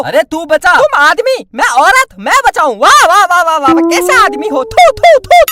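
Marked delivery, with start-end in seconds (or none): 4.6-5.4 loud high spitting at her husband; mock spitting disgust. Wife spits at her cowardly husband, loud scorn. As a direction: scorn him loudly.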